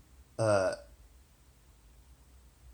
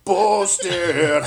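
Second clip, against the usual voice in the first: imitating a singer; 2 semitones higher, much slower than usual. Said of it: "just like Jeremy spoken".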